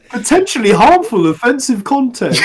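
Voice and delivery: high, loud parody warning; mock content warning. Host parodying Twitter hiding replies, mock-alarmed announcement. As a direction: announce it as an exaggerated warning notice.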